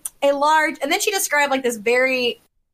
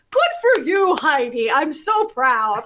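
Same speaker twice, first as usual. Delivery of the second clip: proud grandpa; 2 semitones higher, slower than usual. Retold or imitated. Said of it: "golf clap".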